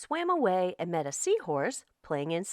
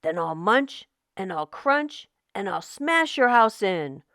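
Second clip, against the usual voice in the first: mild roar. Acted. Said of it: "roared the shark".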